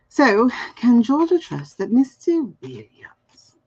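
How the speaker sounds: slow voiceless whisper. Shown as a demonstration. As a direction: murmur it like a secret, slowly. Whispers the question while focusing.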